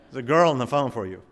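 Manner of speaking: hammed-up mother announcing a call; mock amazed mom. Mom announcing the girl's call, lightly hammed-up amazement. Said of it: "That never happened. laughs".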